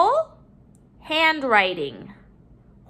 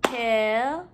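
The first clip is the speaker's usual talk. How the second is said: syllable by syllable. Shown as a demonstration. Teacher counting syllables in the word, broken up. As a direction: break "Pillowcase" apart with pauses. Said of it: "break up our syllables".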